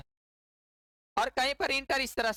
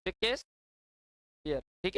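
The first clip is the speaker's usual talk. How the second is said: drawn-out name; 4 semitones lower, much slower than usual. Shown as a demonstration. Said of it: "drawn out name for class".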